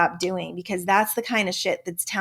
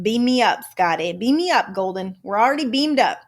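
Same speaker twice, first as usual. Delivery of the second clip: mock call to be beamed up; playful exclamation; 2 semitones higher, 5 dB louder than usual. Playful quote of a catchphrase.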